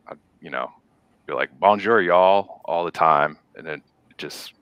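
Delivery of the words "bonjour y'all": bonjour in a light Southern drawl; slow Southern drawl on a French greeting; Southern accent. Acted. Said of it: "the Southern accent comes out".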